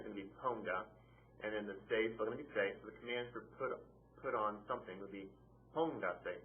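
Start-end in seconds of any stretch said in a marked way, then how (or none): 5.8-6.4 "póngase" stressed on PON. Shown as a demonstration. Teacher giving the command for put on, "póngase" stressed on PON. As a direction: punch the O of "póngase". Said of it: "accent over the O".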